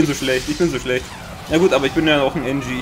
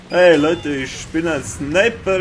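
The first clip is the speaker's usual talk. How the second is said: mock sniper; slower than usual. Mocking the sniper's self-introduction.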